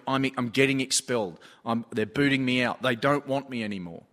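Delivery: understated retelling of a student in tears; slightly low, subdued mock upset; retold tearful. Crying student hears he is getting expelled, retold tearful. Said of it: "he's just in tears going".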